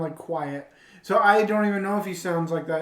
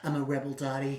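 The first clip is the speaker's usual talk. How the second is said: low, softer mock snootiness; snooty Pee-wee Herman; 6 semitones lower, 8 dB quieter, faster than usual. Friend quoting his snooty side, low-voiced. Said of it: "his snooty self where he's like".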